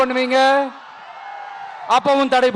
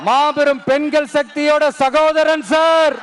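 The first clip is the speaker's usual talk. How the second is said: rising rally shout. Real, not acted. Rally speech rising to a climax.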